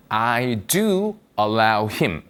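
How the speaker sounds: "do" hit and held, said very slowly; stress on do. Shown as a demonstration. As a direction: lean on "do" to show emphasis. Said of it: "나는 정말 그를 허락하거든". ("do"에 힘주어 천천히)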